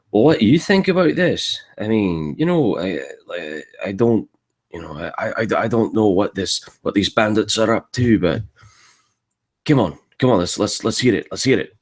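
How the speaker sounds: a light Scottish dwarf accent that starts high and then settles; a nosy Scottish dwarf voice, lightly done, asking "what do you think about this?". Shown as a demonstration. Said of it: "do a Scottish accent or something".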